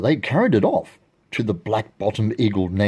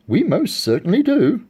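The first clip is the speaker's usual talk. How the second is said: high, loud little pipe; piping voice; 11 semitones higher, 4 dB louder than usual. A narrator's reading. Tiny mayor answering Horton, piping up high. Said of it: "piped the voice".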